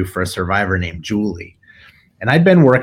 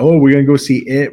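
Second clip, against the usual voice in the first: mock teasing; 4 semitones higher, 6 dB louder, faster than usual. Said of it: "thought it was hilarious to joke".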